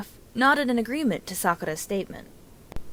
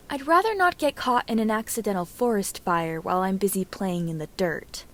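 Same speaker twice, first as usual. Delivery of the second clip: dry. Acted. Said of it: "Sakura tells her sensei dryly".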